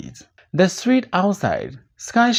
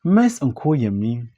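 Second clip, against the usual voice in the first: sheepish grin; 3 semitones lower, much slower than usual. Acted. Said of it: "with a broad but sheepish grin".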